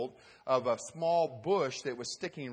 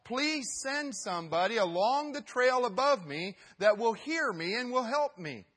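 desperate prayer; 6 semitones higher, 6 dB louder than usual. Acted. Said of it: "he decides to pray".

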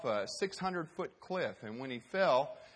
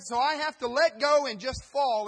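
anxious; 9 semitones higher, 9 dB louder than usual. Acted. Hiker anxious.

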